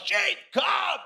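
high, loud bellow to far-off sheep; all-out yell. Retold or imitated. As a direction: holler as loud as you can. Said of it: "yells it as loud as he can".

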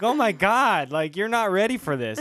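loud, high mock panic; freaking out. Imitating the acting teacher freaking out at his student, high and loud. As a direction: exclaim it like you're losing it. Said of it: "just, like, freaking out".

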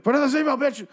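high mock yell at his wife. Husband yelling at wife.

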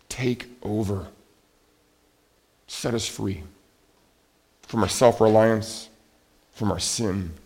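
short phrases with long pauses; hushed, measured plea to God; solemn prayer. Real, not acted. Leads a closing prayer.

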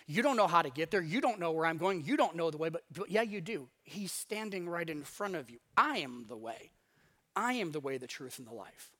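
a hint of a gentle teacher calming them; calm reassuring Jesus. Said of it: "And he's like".

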